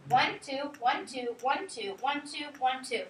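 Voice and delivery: "one, two" in pairs, each "one" stressed and falling; counting beats. Shown as a demonstration. Teacher counting the iambs on the board, in steady pairs. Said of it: "I'll do it on the bottom one".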